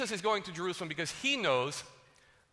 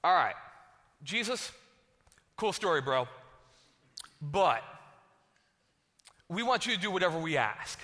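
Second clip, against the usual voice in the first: cocky brush-off. Retold or imitated. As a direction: wave off the big speech and make the demand. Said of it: "they're like".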